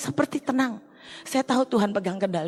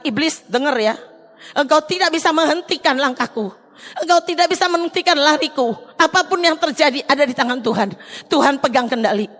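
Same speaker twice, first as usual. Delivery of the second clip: raised, louder, higher voice of defiance; near-tearful bold proclamation; defiant declaration; 3 semitones higher, 4 dB louder than usual. Retold or imitated. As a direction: proclaim it as a challenge to the devil. Defiant declaration against the devil.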